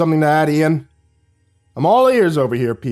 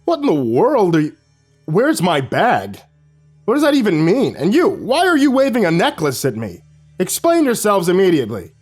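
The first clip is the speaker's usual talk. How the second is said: higher, louder outraged man; indignant principal; 7 semitones higher, 4 dB louder than usual. Acted. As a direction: demand answers, scandalised. Shocked principal demands explanation.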